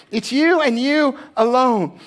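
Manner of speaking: YOU and ALONE stressed, high and drawn out; emphatic. Shown as a demonstration. Preacher showing the congregation the emphatic wording, stressing "you" and "alone". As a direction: lean hard on "you" and "alone", slowly. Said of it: "And it's emphatic".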